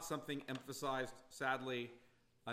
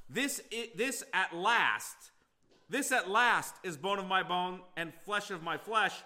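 voiced with delight, loud and bright, a laugh breaking through; joyful exclamation; 3 semitones higher, 5 dB louder than usual. Preacher voicing Adam's delighted cry to his wife. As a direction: cry out in delight at the sight of her.

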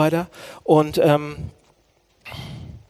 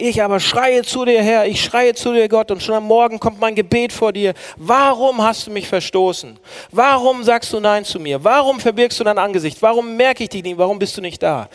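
raised, urgent pleading quotation of a lament; psalm lament; 4 semitones higher than usual. Acted. Preacher voicing the psalmist crying to God, urgent lament. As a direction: cry the questions out to God, higher pitched.

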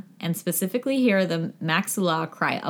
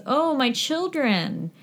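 mock wail; 7 semitones higher, slower than usual. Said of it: "La Llorona is said to cry".

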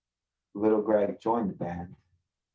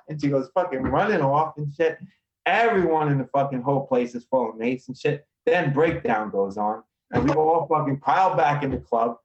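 higher, louder, building excitement; excited storytelling; 5 semitones higher, 3 dB louder than usual. Real, not acted. Telling the podcast host about the mace fight, excited and loud. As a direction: rush the wild story as it peaks.

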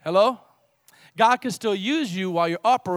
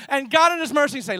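ordinary talk

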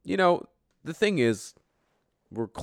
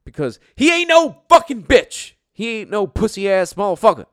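high, loud hammed-up tough-guy shout; 11 semitones higher, 10 dB louder than usual. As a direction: yell it like a cocky street tough. Tough-guy outburst about Mike.

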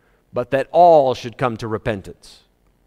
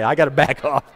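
worked up. Real, not acted. Preacher admits he got worked up, still agitated. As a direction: still fired up while reining it in. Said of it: "I'm getting worked up".

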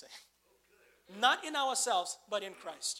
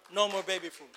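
louder, punched second time; emphatic repeat; 3 semitones lower, 5 dB louder than usual. Real, not acted. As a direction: drive it home with force.

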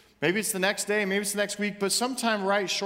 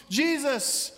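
high, pleading cry, slowing at the end; pleading shout; 7 semitones higher, slower than usual. Acted. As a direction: cry out to be heard over the crowd. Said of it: "He's screaming at the top of his lungs".

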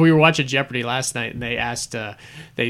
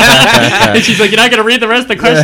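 loud, high, through laughter; amused, laugh-filled storytelling; laughing retelling; 8 semitones higher, 10 dB louder than usual. Real, not acted. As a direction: tell it while cracking up. Laughing while retelling quiz story.

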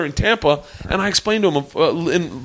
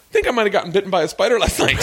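mock casual Roy; 5 semitones higher, faster than usual. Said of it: "this is the first post".

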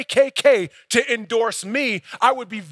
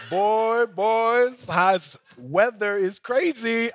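imitating stilted, over-friendly chit-chat; forced small talk; much slower than usual. Pastor stuck for words with his doorman, awkwardly forced small talk. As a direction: stretch out the words, hunting for a topic.

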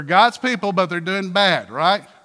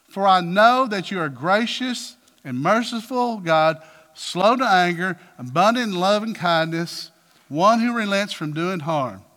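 aggrieved and deliberate; upset complaint; 3 dB louder than usual. Acted. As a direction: throw God's virtues back at him, stressing each one. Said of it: "Well, that's, he's upset".

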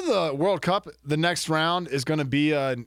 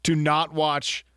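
slow solemn promise; slower than usual. Pretend.

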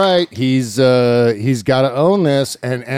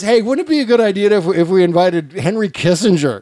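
Trump impression; 3 semitones higher than usual. Trump voiced inviting Kissinger.

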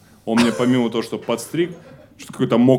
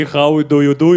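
put-on English accent; 2 semitones higher, 4 dB louder than usual. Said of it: "С английским акцентом".

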